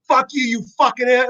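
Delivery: high-pitched imitation of an outburst; hammed-up cursing, pitched well up; mock angry yell. Imitating wife cursing out the other driver, mock angry. Retells wife yelling from front seat.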